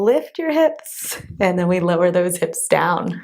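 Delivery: muscles shaking, straining; shaky from effort. Real, not acted. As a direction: talk while legs shake. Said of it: "I'm starting to get the shakes".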